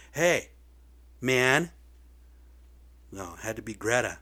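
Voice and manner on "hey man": louder hey man, calling out; mock call-out. Someone from this country standing up, a louder call-out. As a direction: shout it like standing up to speak. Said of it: "stand up and say".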